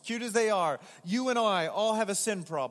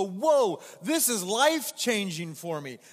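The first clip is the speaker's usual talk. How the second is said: amazed; 2 semitones higher, 4 dB louder than usual. Retold or imitated. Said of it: "you'd go".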